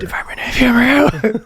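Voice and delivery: high, slow mock grand title; drawn-out goofy announcing. Wacky head answers knock.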